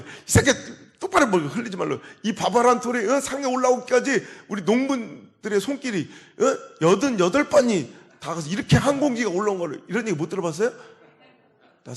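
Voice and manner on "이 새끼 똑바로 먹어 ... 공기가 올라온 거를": louder, higher mock scolding of a messy eater; a mother ranting about each grain of rice. Mother scolding her son for spilling rice, louder mock rant.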